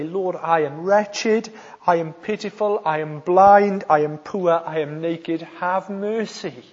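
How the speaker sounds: plea to God in measured phrases; drawn-out, imploring prayer; earnest prayer. Acted. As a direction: pray it slowly, with weight on each confession. Voices a prayer.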